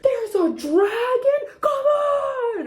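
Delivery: high, thrilled shout; excited shout. Retold or imitated. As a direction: yell like a kid thrilled at the movie. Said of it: "every five minutes he was like".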